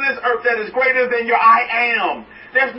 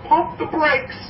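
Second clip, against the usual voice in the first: voicing the Master; 6 semitones higher, slower than usual. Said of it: "the Master say".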